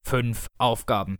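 langsam und tiefer hervorgepresst; gepresster Tod. Acted. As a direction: quetsch die Worte langsam heraus. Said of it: "presste er hervor". (der Tod presst die Zahl langsam heraus)

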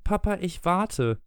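put-on high, slow child's voice, coolly waiting. Michael waits for his father to take medicine, cool. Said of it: "sagte Michael kühl".

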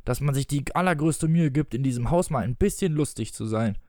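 mildly embittered complaint; bitter. Acted. Father complains his joke went unappreciated, mildly bitter. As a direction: grumble like someone slightly wronged. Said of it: "sagte er bitter".

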